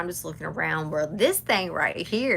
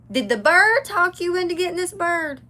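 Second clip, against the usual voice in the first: mock incredulous dad; 12 semitones higher, 9 dB louder than usual. Dad's escalating sarcastic question.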